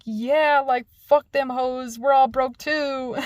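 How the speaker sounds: loud, drawn-out cheer of solidarity; hammed-up group backing; rallying crowd. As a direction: voice a classroom joining the revolt, slowly and loudly. Voices the class rallying behind her.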